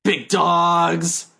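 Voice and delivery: a hint of a meathead; lightly voiced bro catchphrase; big dog voice. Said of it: "the big dog voice".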